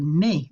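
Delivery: "mais" as one syllable, like "may"; run-together vowels. Shown as a demonstration. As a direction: say French "mais" with one merged vowel, silent s. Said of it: "We don't wanna pronounce it mais".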